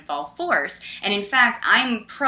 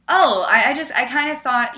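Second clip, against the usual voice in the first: higher, halting mild surprise; imitated taken aback; 4 semitones higher, 5 dB louder than usual. Opponent confesses his assumption, imitated as taken aback. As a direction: mimic someone caught off guard. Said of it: "he was taken aback".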